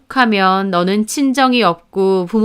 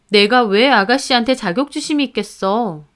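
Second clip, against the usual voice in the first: mildly indignant wife's question; indignant retort. Acted. Wife answering husband's jab about his sister, mildly indignant. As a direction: push back at the accusation, restrained.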